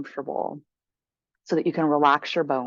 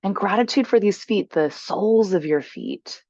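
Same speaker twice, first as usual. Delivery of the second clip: guided meditation. Acted. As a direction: guide them gently into stillness, unhurried.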